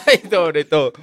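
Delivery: high laughing ay; laughing cry. Real, not acted. Laughing at her friend's joke about Jesus, high laughing cry. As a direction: burst out laughing on it.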